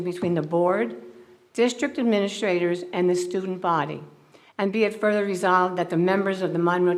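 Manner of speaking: measured ceremonial proclamation delivery; formal resolution reading. Acted. Board leader reads a tribute to student member, formal reading. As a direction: read it out officially, phrase by phrase.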